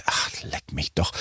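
low, slow, hushed brush-off; muttered dismissal. Retold or imitated. Host thinking it while counting down from anger, low muttered dismissal. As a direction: let it drop to a slow, tired murmur.

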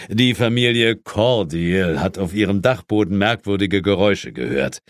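lightly voiced stern boss, a touch of stiff superiority; a hint of a British chief putting his agent in his place; Sir James. Chief rebuffs his inspector on Christmas Eve, lightly stern.

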